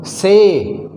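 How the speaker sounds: से with a long held vowel; lengthened vowel. Shown as a demonstration. Teacher models ay words for students, lengthened vowel. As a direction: draw out the vowel in से. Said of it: "थोड़ा सा बड़ा होगा".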